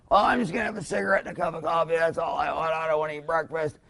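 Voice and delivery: lightly voiced stressed-out parent waving breakfast away; mock weary parent. Parent refusing breakfast, voiced mockingly.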